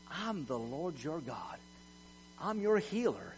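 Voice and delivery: soft, sincere declaration; tender assurance. Acted. Preacher voicing God's heart to His people, softly reassuring. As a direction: reassure them softly, unhurried.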